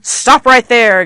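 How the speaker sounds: slow, loud, emphatic order; shouted command. Shown as a demonstration. Teacher warning someone walking over a cliff, shouted command. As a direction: punch out each word to stop them. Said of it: "you probably are going to be shouting it at them".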